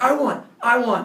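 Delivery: loud, high victory yell; imitated yelling. Bully getting up after the fight, imitated triumphant yell. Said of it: "he keeps yelling".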